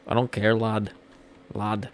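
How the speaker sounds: put-on amateur Northern British accent; lightly imitated British accent; attempted British accent. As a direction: imitate a British fighter saying "lad". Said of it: "how those kind of British people talk".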